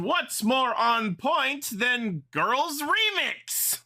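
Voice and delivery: slow, high eerie drawn-out wail; a hint of ghostly wail; spooky voice. Shown as a demonstration. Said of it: "I'm gonna do a spooky voice".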